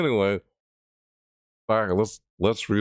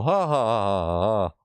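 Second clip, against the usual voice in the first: reading out a laugh. Pretend. Streamer acting out the written laugh, mock villain laugh. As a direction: read the ha-has as a hammy villain laugh. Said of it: "I like it when I go".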